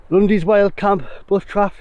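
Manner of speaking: breathless after the walk; panting lightly between words; out of breath. Real, not acted. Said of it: "Sorry, I'm out of breath".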